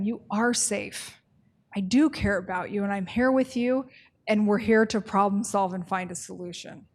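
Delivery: calm the client down gently; reassuring a client. Shown as a demonstration. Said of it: "how your interactions wanna feel".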